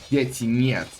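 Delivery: best attempt at a Russian accent. Shown as a demonstration. Caster naming a Russian unique building, Russian accent. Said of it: "with my best Russian accent".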